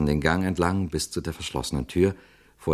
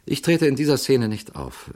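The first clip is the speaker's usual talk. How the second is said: lightly smiling reply, pitched up and louder; 9 semitones higher, 5 dB louder than usual. A narrator's reading. Jarvis to the priest about the rehearsal, smiling. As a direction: answer brightly with a hint of a smile. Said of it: "antwortete Jarvis lächelnd".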